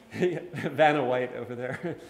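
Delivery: amused, laughing through the words. Real, not acted. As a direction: chuckle while making the joke. Joking as colleague holds up book.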